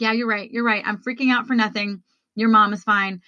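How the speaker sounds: settled, matter-of-fact self-agreement; calmed down. Retold or imitated. Woman agreeing with herself after the freak out, calmed down. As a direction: concede it to yourself in an everyday pitch. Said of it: "I literally calmed down".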